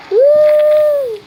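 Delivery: malakas at napakataas na "Woo"; masayang sigaw. Real, not acted. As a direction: hiyaw sa tuwa. Sigaw habang naglalaro. (tuwang-tuwang hiyaw)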